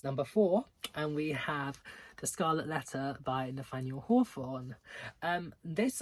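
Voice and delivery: usual speaking voice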